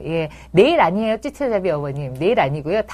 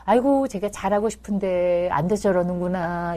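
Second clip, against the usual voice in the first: thinking to oneself; 5 dB quieter than usual. Shown as a demonstration. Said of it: "머릿속으로만 생각하시고".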